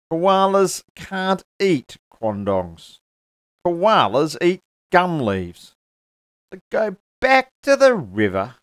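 high, loud, slow explaining; a lightly voiced tree setting her straight; schoolmarm quandong tree. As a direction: spell it out like a patient teacher.

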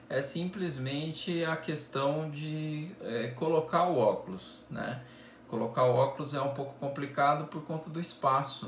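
muffled by cloth balaclava; speaking through fabric covering; through a face mask. Real, not acted. Seen 0: Black balaclava covers mouth throughout; only held in hand before.

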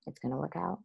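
hushed, self-soothing "It's gonna work out"; quiet mantra. Retold or imitated. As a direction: say "It's gonna work out" softly under the breath, like a private reassurance. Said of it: "every day just saying".

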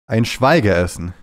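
slow, weighted punchline; deliberate delivery. Real, not acted. Streamer landing his invented word as a punchline, slow and weighted. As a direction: land the pun slowly. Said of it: "befand meine Betonung sehr gut".

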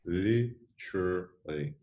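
"Literally" said slowly, syllable by syllable; slow careful literally. Shown as a demonstration. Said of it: "say it faster and faster".

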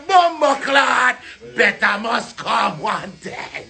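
drawn-out slow shout of the catchphrase. Retold or imitated. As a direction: belt it out slowly like a slogan. Quoting himself, slow shouted catchphrase.

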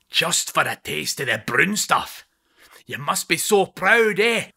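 goading the keeper about his daughter from the touchline; cruel taunting. Acted. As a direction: twist the knife with fake sympathy.

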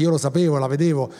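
ordinary delivery

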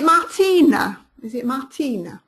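French-accented name, stretched on the "ee"; attempted French accent. Shown as a demonstration. Host checking how to say an attendee's name, French accent. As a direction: say Martina with a playful French accent. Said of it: "doing a good French accent there".

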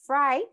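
"frightened" in separated parts, fright... n... d; "frightened" split up, no vowel in the ending; broken into sounds. Shown as a demonstration. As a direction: sound out "frightened" with long gaps before n and d. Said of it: "Decimos frightened".

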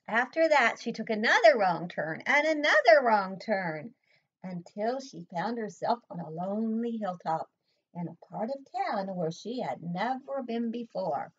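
lively, lilting picture-book reading; story read aloud. A narrator's reading. Reading Hazel's story aloud to a child, lively storytelling. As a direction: read it to a small child with bouncy emphasis.

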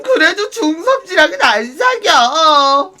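whiny refusal. Acted.

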